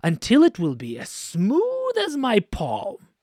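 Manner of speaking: lightly voiced stern king, slow, ending in a whisper; a hint of a cross ruler laying down the law; stern king setting a task. King of Underland ordering Ivanushka, lightly voiced and slow.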